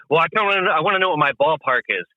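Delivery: a touch of blunt, matter-of-fact client; hard-nosed customer. Acted. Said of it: "hard-nosed and he speaks very direct".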